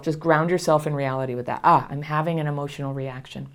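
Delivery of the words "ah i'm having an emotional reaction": soft, low, settled "Ah, I'm having an emotional reaction."; quiet grounding self-talk; calm self-noticing. Shown as a demonstration. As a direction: say it gently to yourself. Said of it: "You can just say that to yourself".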